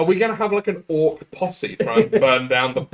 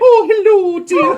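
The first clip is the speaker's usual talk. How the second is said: very high, sing-song camp hello dear; camp greeting; 6 dB louder than usual. Retold or imitated. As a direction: camp Manchester mock greeting. Camp voice mocking the accent.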